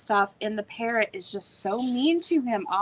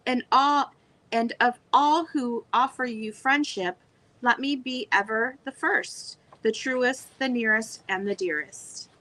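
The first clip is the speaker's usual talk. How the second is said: poem reading. Acted. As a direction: read the verse out to the viewers. Reads a birthday verse aloud.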